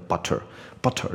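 BUTTER with both T and R fully sounded; mixed butter. Shown as a demonstration. Teacher warning against the mixed style, both T and R sounded. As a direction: pronounce BUTTER with a clear T and a heavy final R. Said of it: "T又发出来，R又发出来".

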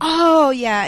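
high, loud mock mom reply; imitating mom. Mom hearing of the switch to acting, high loud mock voice. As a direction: play mom, who always knew. Mom reacting to career news.

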